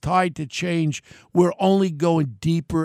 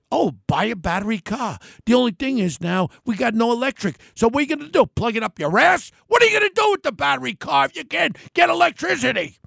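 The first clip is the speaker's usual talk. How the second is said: mock-quote climbing higher, ending fast and sarcastic; mocking rant; 5 semitones higher, faster than usual. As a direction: ridicule the advice with rising outrage. Mocking politicians' battery car advice.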